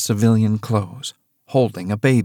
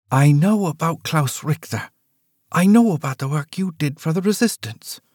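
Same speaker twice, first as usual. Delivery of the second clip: higher voice, stressing know; daughter confronting; 7 semitones higher than usual. Acted. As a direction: press the point, know on each line.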